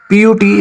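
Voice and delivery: short, rounded "oo" in put; pronunciation model. Shown as a demonstration. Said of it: "is pronounced as put".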